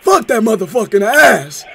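hammed-up prank caller raving about chicken. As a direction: play a rowdy, overexcited customer on the phone. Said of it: "Was that a good voice?".

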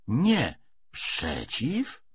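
slow, heavy stress on "przeciw", each syllable drawn out; shifted stress. Acted. Commissar correcting comrades' emphasis, slow stress on "przeciw". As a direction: lean hard and slowly on "przeciw". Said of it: "należy odwrócić nacisk".

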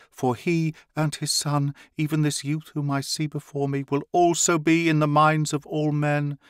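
high, excited proclamation; priestess cries out. A narrator's reading. Priestess marvelling at the two who enter her chamber, high excited cry. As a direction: cry it out in awe at the newcomers. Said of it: "cried the priestess".

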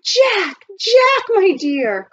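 high, loud, drawn-out greeting; joyful cry. A narrator's reading. Aunt recognizes her runaway nephew, crying out joyfully. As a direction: cry out to a long-lost loved one. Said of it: "cried Aunt Arabella".

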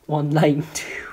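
slow, breathy whispered digits; mock whisper. Reading a troll comment, a slow mock whisper. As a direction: whisper the numbers slowly like a creepy secret.

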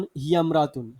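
হিয়ামরাতুন run together, the alif of ইমরাতুন dropped; হিয়ামরাতুন linked smoothly, vowel of ইমরাতুন swallowed; joined without alif. Shown as a demonstration. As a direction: read হিয়ামরাতুন as one word, no glottal stop. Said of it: "এখানে আলিফটা উচ্চারণ হবে না".

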